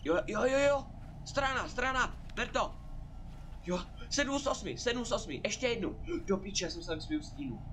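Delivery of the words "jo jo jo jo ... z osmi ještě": excited cheering. Real, not acted. Streamer finds a page, excited cheering.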